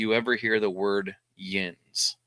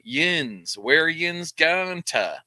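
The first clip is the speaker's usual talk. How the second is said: Pittsburgh accent; 4 semitones higher, much slower than usual. Shown as a demonstration. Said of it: "when you're in Pittsburgh, you hear it".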